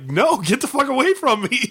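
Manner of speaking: high, mock-yelled get away; mock angry shout. Mother-in-law yelling at the stranger, a mock shout. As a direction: rebuff him in a mock yell. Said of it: "she was like".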